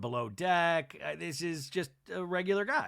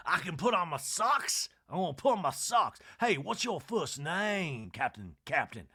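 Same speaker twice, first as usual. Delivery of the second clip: mock Sutton; 3 semitones higher than usual. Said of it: "She's like".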